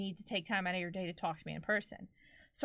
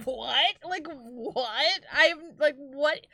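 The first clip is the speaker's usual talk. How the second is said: higher, louder, laughing disbelief; incredulous; 4 semitones higher, 6 dB louder, much slower than usual. Retold or imitated. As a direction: burst out with a baffled, amused what. Disbelief at girl's retold behaviour.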